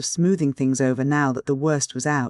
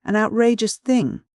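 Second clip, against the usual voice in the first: "outrageous thing" higher and louder, hard fall on "thing"; violent outrage; 7 semitones higher, 3 dB louder than usual. A narrator's reading. Uncle repeats his outrage at the family council, higher and louder. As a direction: explode with indignation on "thing". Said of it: "said Uncle Benjamin violently".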